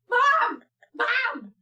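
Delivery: high, loud shout of warning; retold alarmed calling. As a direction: call out to mom, imitating the alarm.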